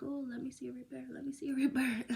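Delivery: hurried sing-out of a wish; eager pleading. Retold or imitated. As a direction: reenact a playful, hopeful begging. Reenacting her eager plea to God.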